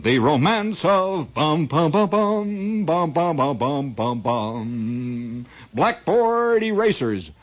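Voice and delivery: slow, hammed-up film narrator voice; lightly voiced grand film announcer; mock announcer. The film's voiceover introduces blackboard erasers, mock grand. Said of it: "the voice comes in".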